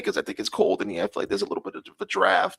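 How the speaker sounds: put-on high, kvetching Jewish accent. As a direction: complain in a hammed-up Jewish accent. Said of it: "working too much on my Jewish accent".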